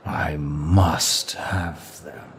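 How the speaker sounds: very slow, measured longing; smitten desire. Acted. Demon sets his sights on a human, smitten. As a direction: draw out each word with desire.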